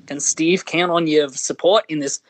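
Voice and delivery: put-on cheeky Australian accent cold-call pitch, laughing through it. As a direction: read the campaign email like an Aussie caller. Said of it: "in an Australian accent".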